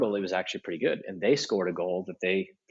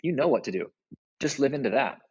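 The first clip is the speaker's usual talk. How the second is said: encouraging; 5 semitones higher than usual. Shown as a demonstration. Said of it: "One was calling them up, saying".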